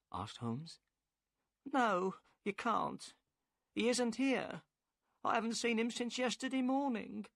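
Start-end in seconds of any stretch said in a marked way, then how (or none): 1.6-7.3 higher woman's voice, upset and defensive; the boatman's wife, worried and curt. A narrator's reading. Narrator voices Mrs Smith.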